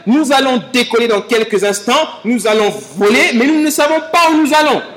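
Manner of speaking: lightly voiced airline pilot announcement; captain over the intercom, hinted; pilot cockpit headset. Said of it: "la voix du commandant de bord qui dit".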